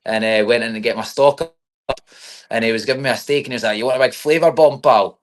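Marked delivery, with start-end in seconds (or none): 3.8-5.2 imitated Scottish butcher, a little higher and louder; lightly played-up Scottish accent; Scottish butcher's accent. Butcher offering his customer a steak, in a Scottish accent. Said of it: "I've missed that accent so much".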